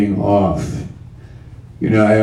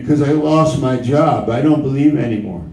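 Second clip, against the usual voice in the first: doubter's voice; 3 semitones higher, faster than usual. Acted. Voicing a doubter in sermon.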